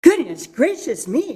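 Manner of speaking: a startled hen crying out; Henny Penny exclaiming. Acted. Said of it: "said Henny Penny".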